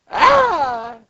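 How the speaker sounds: high cartoon cry; acted yelp. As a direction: yelp as if just whipped. Acted cry from whipped worker.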